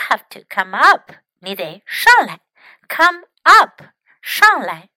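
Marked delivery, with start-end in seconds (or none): 2.9-4.9 calling up. Shown as a demonstration. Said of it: "let's practice some sentences".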